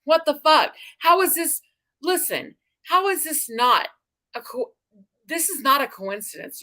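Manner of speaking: can't believe it, voice shooting up; shocked disbelief. Real, not acted. Disbelief at the coincidence.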